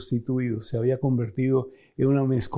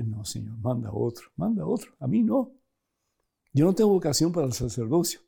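retold pleading refusal. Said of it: "Por mucho tiempo decía".

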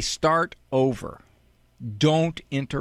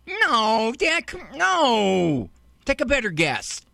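put-on exasperated kid; 5 semitones higher, slower than usual. Kid correcting dad.

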